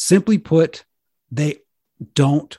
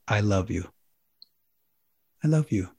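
soft tender; 5 semitones lower, 6 dB quieter than usual. Shown as a demonstration. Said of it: "most powerful of all".

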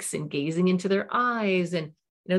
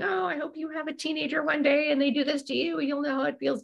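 spiteful comeback; 9 semitones higher than usual. Acted. Parent snapping back at teen.

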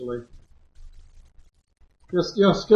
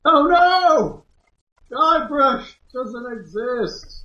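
mock dismay; 9 semitones higher, much slower than usual. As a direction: play up the horror. GM mock panic.

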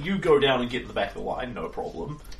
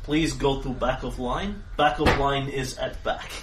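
tired guard voice. Acted. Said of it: "he barely looks at you".

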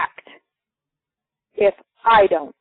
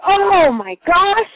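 high, slow, drawn-out oh my gosh; a high, stretched cry of surprise; surprised exclamation; 9 semitones higher, 4 dB louder, much slower than usual. Retold or imitated. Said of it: "I was like".

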